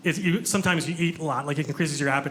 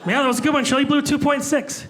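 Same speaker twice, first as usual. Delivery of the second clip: mocking high voice; 8 semitones higher, 3 dB louder than usual.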